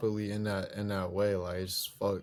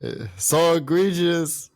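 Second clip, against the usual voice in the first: slow British accent impression; drawled British accent, mock-posh; 3 semitones higher, 3 dB louder, slower than usual. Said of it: "tell him you impersonate him right now".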